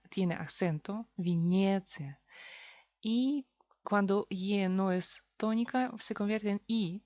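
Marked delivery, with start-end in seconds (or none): 1.2-2.2 Venecia slowly as vi-NYE-tsia; Russian Venecia with stressed second syllable. Shown as a demonstration. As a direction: lean on the long ye in Venecia. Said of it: "porque es tónica".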